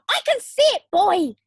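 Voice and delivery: high, loud call; grandma shouting from the roof; shout back. Acted. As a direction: holler down to the boy. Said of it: "the old girl shouted back".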